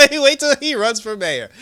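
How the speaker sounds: loud, high, laughing through the words; laughing warning. Real, not acted. Viewer joking about Tobias's mayoral run, laughing loudly. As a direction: crack up while delivering the punchline, drawn out.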